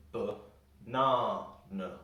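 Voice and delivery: ba-na-na slowly, long stressed NA between short uhs; stress on middle A. Shown as a demonstration. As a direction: break up ba-na-na, leaning on the middle syllable. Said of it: "We put the stress in the middle A".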